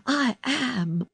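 high, emphatic insistence; excited cry. A narrator's reading. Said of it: "Colin cried".

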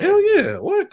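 sudden high, loud cheer at a dunk; hype shout. Real, not acted. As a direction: yell it up high with real excitement. Hyped reaction to a dunk.

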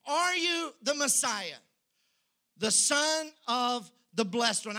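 a lightly voiced high priest, pressing, loud; high priest demanding. High priest questioning Jesus, demanding. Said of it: "the high priest, he asked him".

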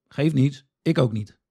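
ordinary talk

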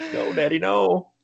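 put-on high, slow begging little boy; pleading kid. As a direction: whimper like a scared kid. Kid begging dad not to spank.

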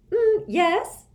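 high, loud words after a bite; swallowing. A narrator's reading. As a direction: speak while just swallowing.

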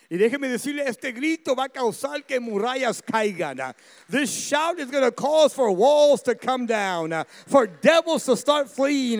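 all-out shouted preaching; preaching at full force. Acted. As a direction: thunder it out over the congregation. Preacher builds to full roar.

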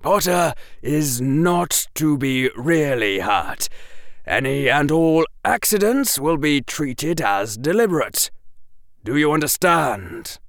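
stern Quirrell. A narrator's reading. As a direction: lay down the rule with a cold edge. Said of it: "sounding very stern".

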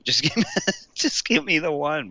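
laughing at his own request; laughing plea. Real, not acted. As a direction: repeat it through laughter.

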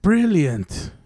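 British-style brilliant; put-on British approval; mock British accent. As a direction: sign off like a Brit. British-voiced sign-off.

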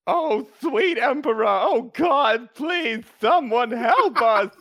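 hammed-up panicked cry for help; very high, loud put-on voice; Gideon Argentos. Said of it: "I could never do that voice".

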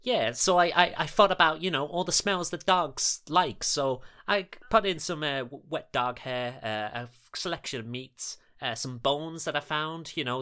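high, proud and eager; eager character voice. Acted. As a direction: boast about the smelly bait. Jasper explains his bait proudly.

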